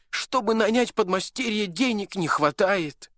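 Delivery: put-on tired old shoemaker. A narrator's reading. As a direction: grumble about hard times. Shoemaker complains.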